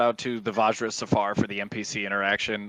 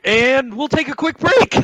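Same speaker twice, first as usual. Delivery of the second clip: laughing quick break; 7 dB louder than usual. Retold or imitated. DM breaking tense moment.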